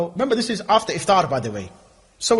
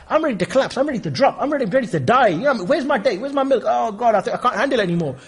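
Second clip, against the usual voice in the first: higher, louder whine of hunger; mock exhausted faster; 7 semitones higher, 4 dB louder than usual. Fasting man at iftar, higher whining exhaustion. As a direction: moan like you're about to collapse.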